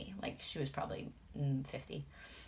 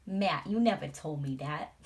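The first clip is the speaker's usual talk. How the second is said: mock scold; 6 dB louder than usual. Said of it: "talking to my husband like that".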